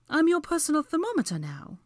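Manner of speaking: high, indignant retort; spat back. A narrator's reading. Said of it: "she spit back".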